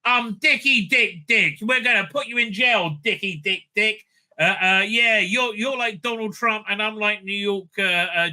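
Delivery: lampoon the senator as a gloating bully; mocking smug villain. Reviewer mocks the senator jailing Mon Mothma, high sneering parody. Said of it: "the Asian guy is just".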